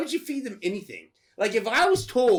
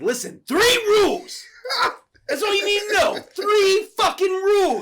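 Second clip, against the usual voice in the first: emphatic warning; 11 semitones higher, 5 dB louder than usual. Retold or imitated. Grandson laying down rules to the buyer, emphatic warning. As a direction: hammer home the rules at a raised pitch. Retold old-timer lays down rules.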